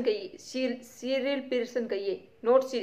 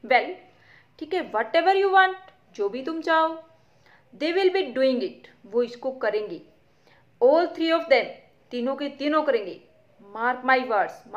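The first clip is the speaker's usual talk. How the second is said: impatient; 3 semitones higher, 5 dB louder, slower than usual. Acted. Mother waving off her friend's worry, impatient. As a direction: hurry through it, fed up. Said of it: "Mrs Pearson impatiently".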